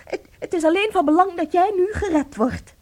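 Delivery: choked, tearful denial; crying. Acted. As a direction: fight back the sobs while insisting you're fine. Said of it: "Huil nou niet". (huilend, met overslaande stem)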